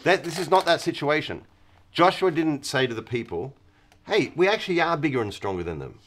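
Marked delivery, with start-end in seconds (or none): 4.1-6.0 mock boast. Boastful warriors quoted.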